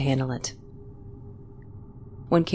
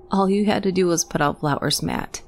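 snapped; 3 semitones higher than usual. Acted. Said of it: "she snapped".

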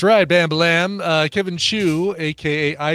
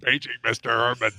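flat echoey pa page; 4 semitones lower, 4 dB quieter than usual. Pretend. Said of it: "You guys should hear Dunaway do that".

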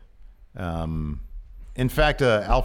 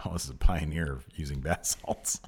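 laughing; 6 semitones lower, 6 dB quieter than usual. Pretend. Imagined reply, laughing.

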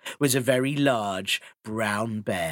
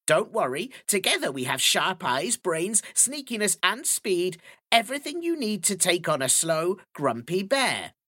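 magpie voice; 6 semitones higher than usual. Acted. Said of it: "said Magpie".

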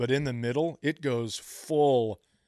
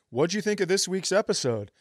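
higher-pitched mock listener asking; imitating a listener; 5 semitones higher, 3 dB louder than usual. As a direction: put on a higher voice for a fan's question. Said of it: "Here's my impersonation of the listeners".

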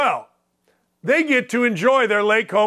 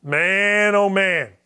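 ordinary talk, nothing marked

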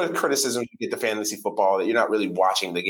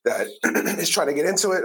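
losing voice, throat clearing; hoarse voice, straining through it; 3 semitones higher than usual. Real, not acted. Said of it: "I'm losing my voice here".

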